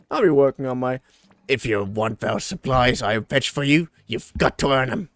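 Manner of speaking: lightly voiced figure laying down terms; bossy taskmaster. Voices bossy character answering Kai.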